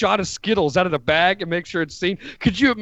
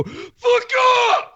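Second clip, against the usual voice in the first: Belichick. Acted. Acted Belichick yelling at trainer.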